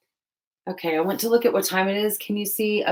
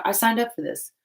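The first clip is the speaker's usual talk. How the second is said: higher, wry I signed up for this; sarcastic sigh at your own choice; mock resigned sarcasm; 6 semitones higher than usual. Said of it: "These are times where I'm like".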